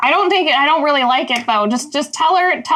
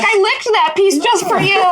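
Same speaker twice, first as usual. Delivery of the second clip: laughing confession; 5 semitones higher than usual. Acted. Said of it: "She's like".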